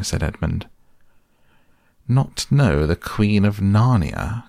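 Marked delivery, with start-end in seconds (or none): 2.1-4.4 indignant queen, mildly raised cry. Acted. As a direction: scoff at his ignorance. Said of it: "cried she".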